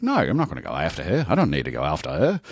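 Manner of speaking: quick mock-Aussie refusal; half-assed Australian objection; fake Australian accent. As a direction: protest fast in a put-on Australian accent. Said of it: "talking in my fake Australian accent".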